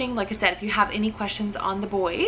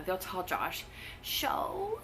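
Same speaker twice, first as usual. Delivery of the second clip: whispering; 2 semitones lower, 14 dB quieter, slower than usual. Real, not acted. Whispered aside about kids.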